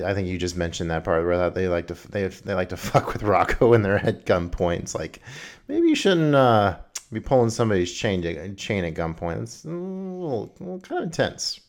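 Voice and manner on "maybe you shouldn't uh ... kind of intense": high mocking sing-song, much higher; tut-tut the pranksters in a high voice; mock scolding. Real, not acted.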